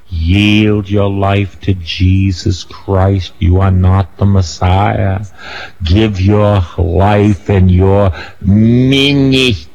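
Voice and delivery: slow, insistent call to surrender; preaching exhortation. Acted. Preacher urging churches to yield to Jesus, slow and insistent. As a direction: press every word on the listeners.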